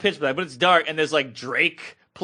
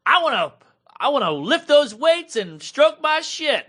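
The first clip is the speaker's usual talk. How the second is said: put-on excited girl; 9 semitones higher than usual. Kelly eagerly answering the spin instructor. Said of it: "Kelly's like".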